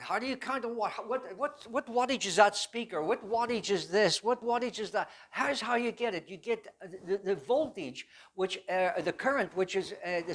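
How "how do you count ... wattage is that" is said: higher, louder instructor's voice firing questions; petty officer pressing. Retold or imitated. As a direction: drill the class with question after question. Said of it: "he said".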